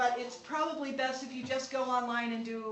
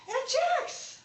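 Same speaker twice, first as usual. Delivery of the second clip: put-on high-pitched earnest child calling out; serious little boy; 14 semitones higher, 3 dB louder than usual. Nephew calls to his aunt under the bright moon, all business. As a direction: call out like a small, very serious nephew. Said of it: "He's all serious".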